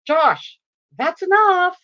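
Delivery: lightly acted scolding, rising on "that's enough"; a hint of a parent cutting off a child; intervening mom. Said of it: "finally I have to intervene".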